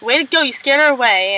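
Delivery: mildly mad, mock-accusing quote; retold annoyance. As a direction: imitate someone snapping lightly in annoyance. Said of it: "and he's all mad".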